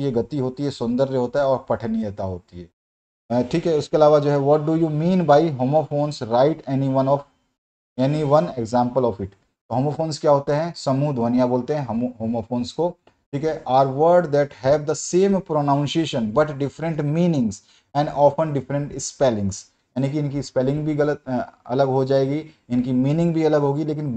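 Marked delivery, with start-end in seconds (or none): 4.4-9.3 slow, word-by-word question dictation; teacher dictating a question; dictation reading. Acted. Dictates exam question slowly. 13.6-19.6 slow, word-by-word question dictation; teacher dictating a question; dictation reading. Acted. Dictates definition slowly.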